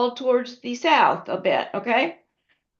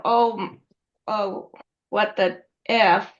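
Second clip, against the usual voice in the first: folksy exclamation; 2 semitones lower, slower than usual. Shown as a demonstration. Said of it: "Let's talk about vernacular".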